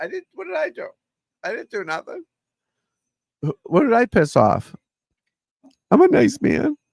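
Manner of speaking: very high, shrill, swooping, sobbing, pleading voice. Retelling complaining to his wife about being ignored: imitating his own crying.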